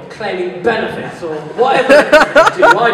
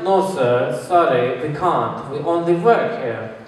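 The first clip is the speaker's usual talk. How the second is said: lightly acted polite shop worker, lower pitch; trying to be nice; 4 semitones lower, slower than usual. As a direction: turn the customer down gently. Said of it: "trying to be nice about this".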